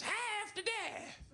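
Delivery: put-on very high, slow frantic old woman cry; panicked old woman. Old woman over the beaten guy, shrill panicked wail. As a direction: wail it like a terrified old lady. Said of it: "all I can hear is".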